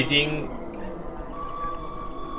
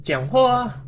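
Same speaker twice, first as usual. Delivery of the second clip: startled yell; 10 semitones higher, slower than usual. Real, not acted. Startled, yelling at game character.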